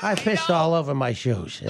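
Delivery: slow, embarrassed detective impression; Peter Falk. Detective admitting an accident, slow and sheepish. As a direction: confess slowly, as the sheepish detective. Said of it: "now do Pierre Falk".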